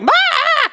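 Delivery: a sudden high yelp like an overexcited dog; imitating a leashed dog going crazy on the beach; mock excited dog yelp. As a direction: yip it out like a dog straining at the leash. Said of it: "her dog was like".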